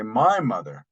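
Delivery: "My mother" with the weight on "My"; emphasis on MY. Shown as a demonstration. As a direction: stress "My" in "My mother". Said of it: "adding emphasis".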